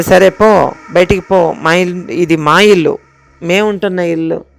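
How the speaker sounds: loud commanding banishment; angry shout. Retold or imitated. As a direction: drive the spirit out of the house with your voice. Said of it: "అని అరుస్తున్నా".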